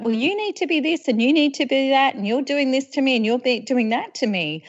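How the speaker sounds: quick, accusing complaint; fast blaming rant. Retold or imitated. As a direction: rattle off accusations. Acting blaming victim voice.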